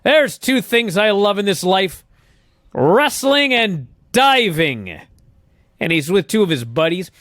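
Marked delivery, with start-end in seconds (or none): 0.0-5.0 mock promo voice, pitched higher; hammed-up wrestler declaring his loves; imitating Crush. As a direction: mimic a corny wrestler, stretching out the last words. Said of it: "him doing this stupid accent".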